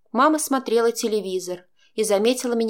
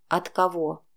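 lower, cold, flat demand; cold question; 3 semitones lower than usual. A narrator's reading. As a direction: ask it coldly. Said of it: "холодно уточнила". (мама холодно спрашивает дочь)

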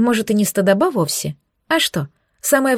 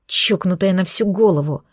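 hissing. Acted. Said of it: "продолжал шипеть демон".

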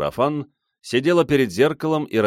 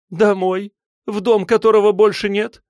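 high, bitter, shaky, nervous; nervous laugh; 13 semitones higher, 7 dB louder than usual. A narrator's reading. Silva mocks his promise of home with a nervous laugh. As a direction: laugh it off in disbelief. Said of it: "нервно рассмеялась она".

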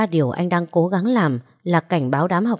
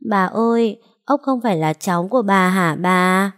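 put-on small boy's tearful plea to grandma; whimpering child's question, lips trembling; 2 semitones higher than usual. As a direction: ask grandma, on the verge of tears. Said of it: "Nó lại mếu máo".

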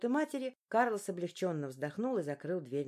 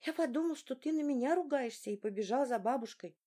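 put-on 1 boy explaining; 6 semitones higher than usual. A narrator's reading.

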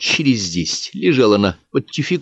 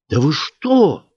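higher, stunned outburst; the angel aghast; shocked cry; 8 semitones higher, 3 dB louder, much slower than usual. Acted. The angel cries out in shock at the vote. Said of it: "крикнул поражённый ангел".

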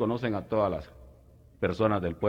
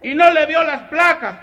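mock question; 9 dB louder, slower than usual. Macabeo asking about plates.

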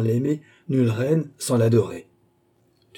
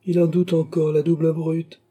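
a raised, higher outcry; exclaiming; 7 semitones higher, 4 dB louder than usual. A narrator's reading. Baron cries out at his doubting son, higher and louder. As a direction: cry it out in disgust. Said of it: "s'écria Tavernet".

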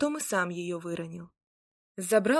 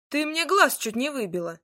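aggrieved grumble; 6 semitones higher, 3 dB louder than usual. A narrator's reading. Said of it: "обиженно проворчал Змеяр".

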